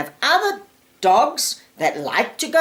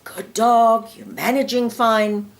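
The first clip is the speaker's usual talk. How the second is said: praising the dog. Shown as a demonstration. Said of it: "You praise the dog".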